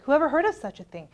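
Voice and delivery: ordinary delivery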